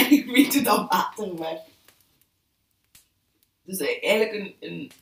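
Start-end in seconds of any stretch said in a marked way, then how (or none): 0.1-1.6 amused echo. Real, not acted. Amused echo of friend's phrase.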